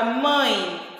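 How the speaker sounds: "mãe" sounded through nose and mouth; nasal vowel. Shown as a demonstration. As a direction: let the nose vibrate on "mãe". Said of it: "Você vai perceber que o nosso nariz". ("mãe" com som nasal, fazendo o nariz vibrar)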